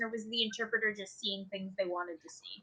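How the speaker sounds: dropped to a whisper. Real, not acted. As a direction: whisper the doubt aside. Skeptical aside, unvoiced.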